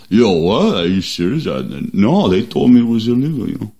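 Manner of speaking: lightly voiced mumbling boxer; a hint of a slurred Philly fighter; Rocky Balboa. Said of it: "that was Rocky Balboa".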